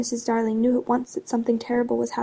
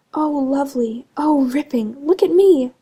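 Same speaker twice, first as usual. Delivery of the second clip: put-on thrilled children; 3 semitones higher, 6 dB louder, slower than usual. A narrator's reading. Children flying round the nursery.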